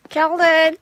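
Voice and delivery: calling a name across the park. Real, not acted. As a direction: shout out to a dog. Calling out to dog.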